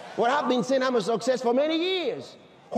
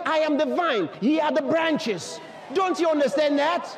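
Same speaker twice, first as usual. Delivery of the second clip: higher-pitched, impassioned sermon delivery; fervent preaching; 5 semitones higher than usual. Acted. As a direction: preach it out to the congregation with conviction. Preaches at full force.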